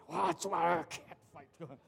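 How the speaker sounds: 很慢地拉长“哇，抓”; 把猫抓人的样子演出来; 模仿女生打架. Shown as a demonstration. Demonstrating girls fighting. (示范女生打架，慢慢拉长地演)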